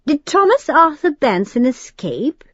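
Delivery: a hint of introspective demon. A narrator's reading. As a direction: probe with a lightly voiced British accent. Al voiced by narrator.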